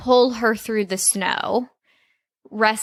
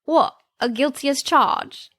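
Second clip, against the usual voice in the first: bad British accent; 4 semitones higher than usual. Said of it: "It's just getting worse".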